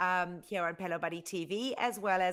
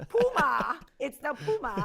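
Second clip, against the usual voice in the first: laughing, a bit higher and louder; 6 semitones higher, 5 dB louder than usual. Real, not acted. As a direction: laugh while saying Puma as Poo-ma. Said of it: "it's not Pew Pew".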